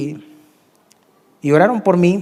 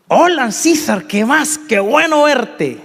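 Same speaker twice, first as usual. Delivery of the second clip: high, bright friendly hello, drawn out; high, friendly mock greeting; cheery greeting; 7 semitones higher, much slower than usual. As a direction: greet him like an old friend happy to see you. Cheerful greeting from old acquaintance.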